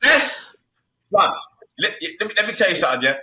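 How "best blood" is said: shouted praise. Real, not acted.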